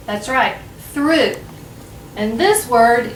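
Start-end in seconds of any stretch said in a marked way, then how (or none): 0.9-1.3 "through" as one syllable ending in ooh; contrasted pronunciation. Shown as a demonstration. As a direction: say "through" like threw, higher and set apart. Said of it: "easy to get mixed up".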